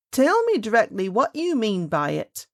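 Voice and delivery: loud, furious nurse demand; half wild with anger and fright; screamed. A narrator's reading. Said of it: "screamed the nurse".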